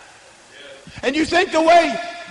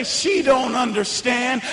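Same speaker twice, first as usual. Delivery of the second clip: voice in my head; 3 semitones lower, slower than usual. Retold or imitated. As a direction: let the doubt murmur slowly. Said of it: "that voice in my head would say".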